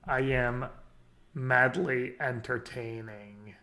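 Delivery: slow, lightly put-on Polish accent; a hint of a Polish accent, drawn out. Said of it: "This is my impersonation of Canister".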